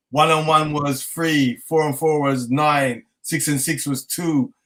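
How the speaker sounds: slow, dazed counting; slowed-down sums spoken as if foggy. Retold or imitated. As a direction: count like a muddled mind. Miscounting on the calculator, dazed.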